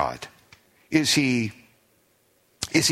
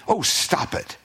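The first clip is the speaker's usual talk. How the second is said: dismissive brush-off; 5 semitones higher, slower than usual. Pretend. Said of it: "not saying".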